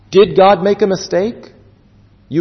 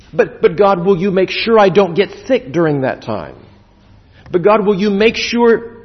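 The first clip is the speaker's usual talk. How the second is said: anxious pleading; 3 semitones higher than usual. Acted. Mimics anxious believers bargaining with God.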